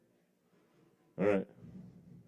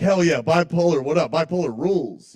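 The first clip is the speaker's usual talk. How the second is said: cheering; 4 semitones higher, 3 dB louder than usual. Retold or imitated. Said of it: "so I'm like".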